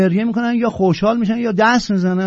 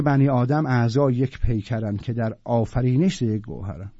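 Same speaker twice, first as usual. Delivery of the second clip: reciting the line again under the breath, almost to himself; hushed verse quote; quiet recital; 8 semitones lower, 6 dB quieter than usual. Acted. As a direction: murmur the verse low and much softer. Re-quoting the same verse softly.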